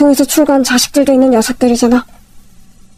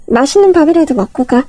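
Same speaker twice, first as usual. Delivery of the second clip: usual speaking voice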